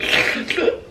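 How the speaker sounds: voiceless demonstration of all-day sick noises; short unvoiced sick sounds; imitated sick noises. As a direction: act out being congested without words. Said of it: "all day I've been like".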